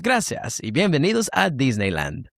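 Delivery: smooth, sing-song Spanish safety announcement; Disneyland ride announcer. Shown as a demonstration. Host showing a voice to the guest, theme-park announcer. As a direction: announce it to the whole park like a recorded ride message. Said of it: "Oh, that Disneyland".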